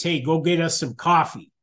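lightly voiced wifey request; a casual, quick nudge from a wife. Wife sending her husband for coffee, lightly voiced wifey voice. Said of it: "said in her wifey voice".

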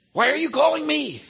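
high, loud stunned disbelief; a retold caller who can't believe who is on the line; astonished exclamation. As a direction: blurt it out in amazement. Stunned caller asking why.

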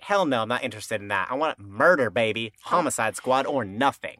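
mock defiant, punchy delivery; brash refusal. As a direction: act out a cocky, determined demand. Acting out Charlotte's brash refusal.

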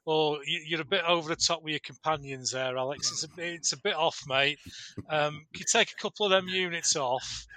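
fast, casual bloke voice; Darius voice. Retold or imitated. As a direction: rattle it off like a matey king. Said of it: "and Darius said".

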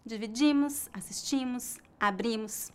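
"dividimos", "assistimos", "abrimos" with the final O S barely voiced; weak final -mos. Shown as a demonstration. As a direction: stress the penultimate syllable and let "-mos" fade. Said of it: "das letras O S no final é bem fraca".

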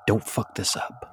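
whispered warning aside. Real, not acted. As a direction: whisper it off-mic.

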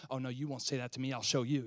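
quick, hushed defiance; a soft, fast huff of pride; understated indignant retort; mock defiant mutter. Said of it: "us trying to exalt ourselves".

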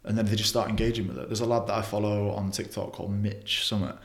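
ordinary talk

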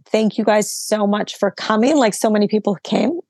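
losing her voice, raspy and strained; hoarse, voice wearing out. Real, not acted. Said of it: "Sorry, I'm losing my voice".

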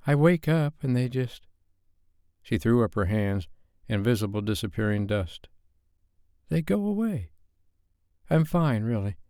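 put-on high, shaky young woman's voice; Sophie evasive. A narrator's reading. Sophie dodging Dave's question, high and unsettled. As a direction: brush it off, voice lifted high.

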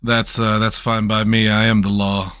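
low-key, courteous lawman's reply; polite. Acted. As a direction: state it courteously, without a dig. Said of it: "I said that with politely too".

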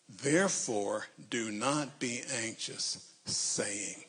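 slow word-by-word reading; reading aloud haltingly. Shown as a demonstration. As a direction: read it word by word. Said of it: "read this very slowly".

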